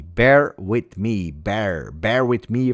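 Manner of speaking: slow, drawn-out crooner croon; mock soul crooner. Asking the audience to wait, crooning slowly like a soul singer. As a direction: croon it slowly like a soul singer. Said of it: "from a soul singer".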